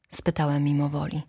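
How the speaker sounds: ordinary delivery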